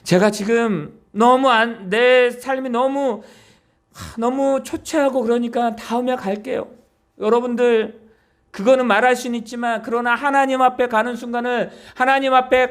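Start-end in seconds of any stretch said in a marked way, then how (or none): 0.0-6.7 slow excuse-making. Retold or imitated. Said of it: "어떤 자들은 말합니다".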